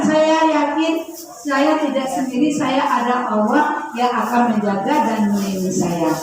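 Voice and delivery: low, calm affirmation of trust; confident affirmation. Shown as a demonstration. Preacher gives mothers words to repeat, calm and low. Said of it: "Jadi katakan".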